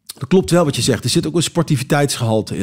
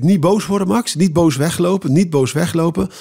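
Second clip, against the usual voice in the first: inner pep talk; 4 semitones higher than usual. Retold or imitated. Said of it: "dan denk ik".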